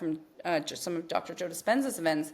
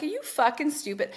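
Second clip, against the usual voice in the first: retold yelling; 5 semitones higher than usual. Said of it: "off the rails yelling".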